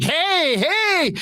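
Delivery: very high, cheery "hey"; costumed characters. Retold or imitated. Park characters greeting a small child, high put-on voice. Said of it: "so they're always like".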